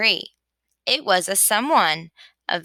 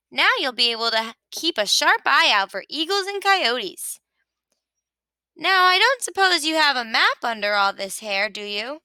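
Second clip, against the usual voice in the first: a hint of a chirpy sheep, quick and eager; lightly voiced Sheep; 3 semitones higher than usual. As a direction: rattle it off like a busy know-it-all. Sheep's voice held.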